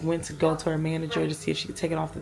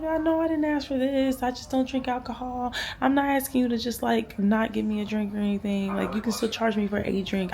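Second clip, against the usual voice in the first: higher-pitched, sweetly patient complaint; extra nice; 6 semitones higher than usual. Retold or imitated. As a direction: plead politely, easing down from a high pitch. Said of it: "I'm being really nice".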